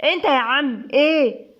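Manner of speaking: Nour thickens her voice, slow and gruff-sounding, teasing; slow, mock thick-voiced call to get his attention; put-on thick voice. Nour calls the distracted Seif in a put-on thick voice. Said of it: "نور تخنت صوتها".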